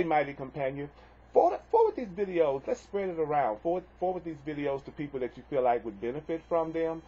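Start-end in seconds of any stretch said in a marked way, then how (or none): 1.3-4.8 excited urging. Real, not acted. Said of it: "urging viewers to share".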